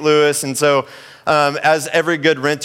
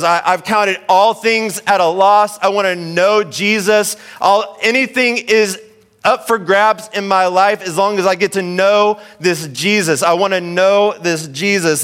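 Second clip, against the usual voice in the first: fervent preaching; 7 semitones higher, 3 dB louder than usual. Retold or imitated. Paul's words preached with force.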